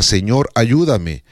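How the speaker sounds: an unhurried humble plea; simple prayer. Shown as a demonstration. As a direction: say it slowly, as a trusting prayer. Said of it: "Entonces simplemente diga".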